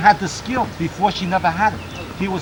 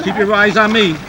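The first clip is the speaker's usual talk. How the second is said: loud, higher command; insistent calling out; 5 semitones higher, 7 dB louder than usual. Real, not acted. Coach keeping the swimmer's eyes fixed, calling out insistently. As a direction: call out to hold their attention. Coach interrupts song to hold attention.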